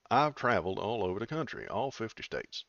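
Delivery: lightly put-on Southern accent. Reading a politician's warning to chat in a light Southern voice. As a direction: read it out with a hint of Southern twang. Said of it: "put on my southern voice".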